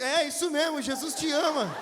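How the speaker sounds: laughing defiant reply. Retold or imitated. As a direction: tell him Jesus loves him while cracking up.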